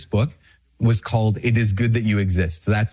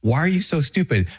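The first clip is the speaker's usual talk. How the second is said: self-scolding; 5 semitones higher than usual. Retold or imitated. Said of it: "And I was like".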